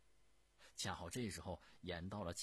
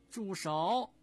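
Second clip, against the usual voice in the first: sharp, very loud and high stop order; commanding shout; 12 semitones higher, 13 dB louder than usual. Acted. Empress Dowager stops the prince mid-blow with a loud shout. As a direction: bark the order to freeze him.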